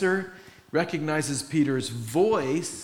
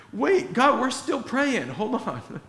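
higher, hammed-up brush-off; mock impatient aside; 9 semitones higher, 3 dB louder, slower than usual. Disciples telling God to wait, mock impatient. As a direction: shoo the interruption away.

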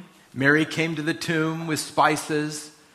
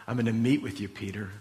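acted reassurance; 5 semitones lower, 5 dB quieter, faster than usual. Risen Lord reassures Peter, voiced softly.

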